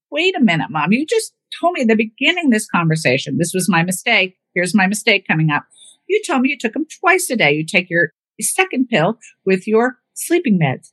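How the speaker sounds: catching mom out mid-argument; heated correction. Retold or imitated. Arguing with mom, proving her wrong.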